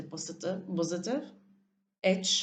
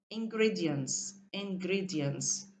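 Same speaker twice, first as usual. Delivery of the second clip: Ingredients said slowly to show its stressed syllable; syllable stress drill; slower than usual. Shown as a demonstration. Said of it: "then practice saying the words".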